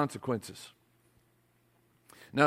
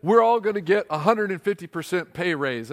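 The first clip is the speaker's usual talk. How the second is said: louder, eager rep; mock excited announcement; 3 semitones higher, 5 dB louder than usual. Rep announcing a pay raise, mock excited. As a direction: sell the raise to the crowd.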